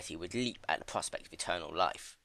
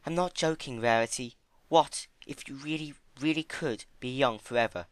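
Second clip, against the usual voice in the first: earnest Fluttershy; 6 semitones higher than usual. Acted. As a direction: gently insist. Fluttershy voiced.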